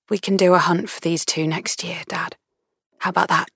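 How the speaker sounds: soft, half-whispered offer; tender daughter. A narrator's reading. Daughter consoling her widowed dad, soft and tender. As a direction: gently cheer him up with a suggestion.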